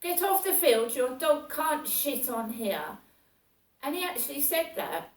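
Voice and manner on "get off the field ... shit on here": higher, louder barked order; mock yell. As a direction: order her off the field. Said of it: "he goes".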